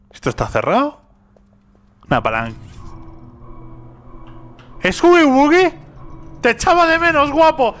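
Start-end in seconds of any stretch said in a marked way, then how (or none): 4.9-7.7 high, louder mock-affectionate coo to the monster; mock sweet greeting. Streamer greets the toy monster, high mock-tender coo. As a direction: coo at the toy monster like a long-lost pet.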